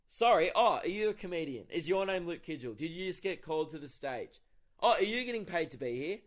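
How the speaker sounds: mock-innocent questions, punched opening; sarcastic. Comedian putting a heckler in place, sarcastic. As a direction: feign surprise to belittle a heckler.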